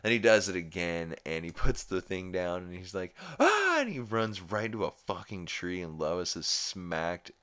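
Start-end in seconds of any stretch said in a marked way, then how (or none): 3.4-3.8 high, loud retold yell of alarm; sudden high yelp, acted out; mock scream. Retelling Peter just before the car crash, mock scream.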